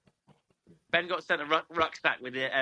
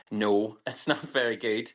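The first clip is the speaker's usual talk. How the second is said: slow, slightly lower Irish accent; Irish accent attempt; 4 semitones lower, slower than usual. Shown as a demonstration. Attempting a final accent for the host, Irish accent. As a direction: try an Irish lilt, drawn out. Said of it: "That's Irish".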